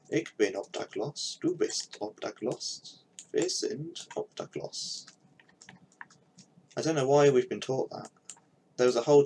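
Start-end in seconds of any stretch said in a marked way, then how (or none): 0.1-5.1 slow schoolbook German conjugation; slow textbook German recitation; reciting German drill. Shown as a demonstration. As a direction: chant it like a language class drill. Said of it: "I can say".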